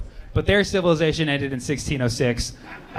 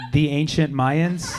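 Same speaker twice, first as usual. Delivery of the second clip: confused; 2 semitones lower, much slower than usual. Retold or imitated. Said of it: "I was like".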